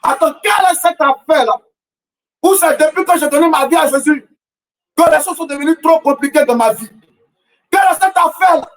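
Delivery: rising preacher's cadence, questioning the crowd; impassioned sermon delivery; fervent preaching. Acted. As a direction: preach it, hammering the refrain. Preacher's rhetorical refrain.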